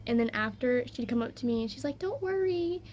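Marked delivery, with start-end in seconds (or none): 2.0-2.8 lightly voiced high, reassuring little sister; comforting little sister. Little sister consoles the sibling who hit her, high comforting imitation.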